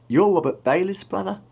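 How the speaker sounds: high, loud shocked double take. Retold or imitated. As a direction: blurt it out in high disbelief. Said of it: "Looking shocked".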